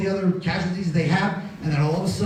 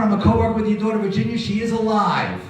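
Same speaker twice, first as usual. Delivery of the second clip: urgent phone message; 5 semitones higher than usual. Retold or imitated. Urgent phone call to mother.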